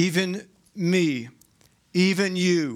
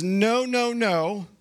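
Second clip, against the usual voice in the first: insistent Peter; 4 semitones higher than usual. Retold or imitated. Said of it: "Peter says".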